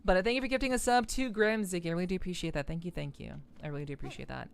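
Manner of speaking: stuffy congested voice; blocked nose. Real, not acted. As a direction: talk through a stuffed-up nose. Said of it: "I'm very congested".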